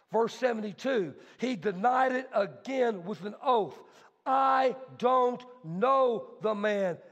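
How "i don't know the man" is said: slow, emphatic shouted denial; exclaimed denial. Acted. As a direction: hurl the denial out slowly. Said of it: "Exclamation point".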